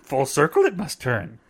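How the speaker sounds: lightly voiced wise little master; a hint of a cryptic sage's cadence; Yoda. Husband teases wife about her change, light Yoda imitation. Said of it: "Okay, Yoda".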